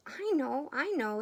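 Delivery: high, loud eager cry; bursting with the idea, calling out; excited quack. A narrator's reading. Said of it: "excited quack".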